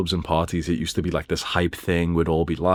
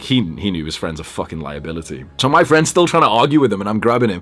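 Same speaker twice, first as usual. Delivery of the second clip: ordinary delivery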